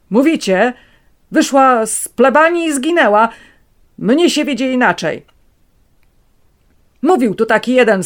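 high, loud, taunting; sneering officer. A narrator's reading. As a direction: catch him in the lie.

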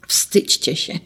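whispered reproach; hushed scolding. Acted. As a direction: whisper it as a gentle shame-on-you. Grandpa scolding children.

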